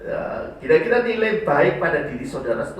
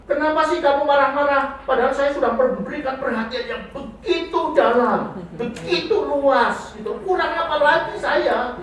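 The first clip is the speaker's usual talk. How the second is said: higher, louder indignant whine; complaining husband; 10 semitones higher, 3 dB louder than usual. Pretend. Husband complaining to his wife, indignant and higher. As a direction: act the self-pitying husband who gave everything. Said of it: "jangan kayak gini".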